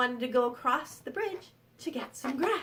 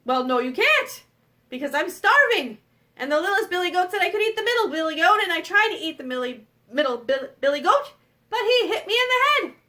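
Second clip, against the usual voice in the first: loud troll complaint; aggrieved troll; 2 semitones higher, 6 dB louder than usual. Acted. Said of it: "the troll goes".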